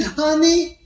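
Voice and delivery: "Honey" stretched out and high; drawn-out wife imitation. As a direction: say "Honey" as one long, lingering word. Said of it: "four seconds to say one word".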